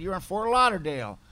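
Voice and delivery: matter-of-fact attendant. Retold or imitated. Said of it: "She said".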